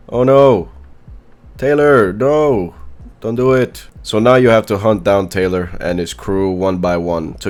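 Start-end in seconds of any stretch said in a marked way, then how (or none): 0.1-3.9 mock dramatic plea. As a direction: beg like a soap opera.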